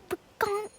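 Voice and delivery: soft, high-pitched comic "pagonk"; imitated impact noise. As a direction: repeat the sound effect softly. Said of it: "it was just like".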